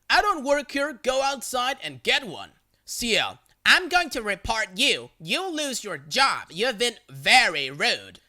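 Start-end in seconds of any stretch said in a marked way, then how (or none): 0.1-2.5 exasperated. Retold or imitated. Narrator fighting over the cart. 3.6-8.2 indignant threat. Retold or imitated. Crazy lady threatens narrator.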